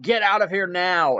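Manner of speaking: loud, furious shouts; screaming. Acted. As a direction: scream him out of the shop. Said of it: "and he screams".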